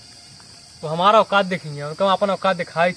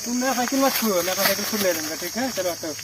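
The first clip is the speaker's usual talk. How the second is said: put-on town drunk. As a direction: slur it like a drunk. Drunk refusing help with cycle.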